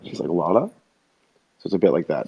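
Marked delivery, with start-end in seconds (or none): 0.3-0.7 lightly put-on throat voice with a lilt; Archer. Shown as a demonstration. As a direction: voice lilting up at line ends. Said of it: "he's also Archer".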